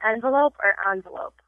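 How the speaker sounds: "envelope" first EN-, then AHN-; two pronunciations. Shown as a demonstration. Host quizzing a guest, "envelope" said both ways. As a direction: offer "envelope" as EN-velope or AHN-velope. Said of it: "I have a pronunciation test".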